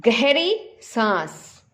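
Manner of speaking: very slow गहरी सांस, drawn out. Shown as a demonstration. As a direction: stretch it like a long breath. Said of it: "शेर ने गहरी सांस ली". (गहरी सांस बहुत धीरे खींचकर)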